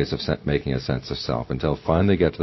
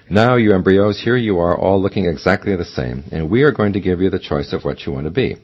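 booming God voice; 2 semitones higher, 5 dB louder than usual. Acted. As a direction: speak as God over creation. God addresses the embryos.

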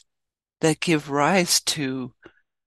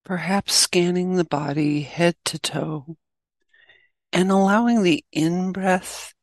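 guided meditation; 3 semitones higher than usual. Acted. Teacher leading listeners into the practice, guided meditation. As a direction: guide listeners gently, leaving long pauses.

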